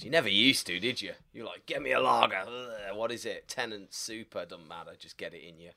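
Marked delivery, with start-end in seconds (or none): 1.7-5.7 lightly put-on Scottish accent, trailing off quieter. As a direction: grumble it in a mock Scottish accent. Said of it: "I put on a Scottish accent".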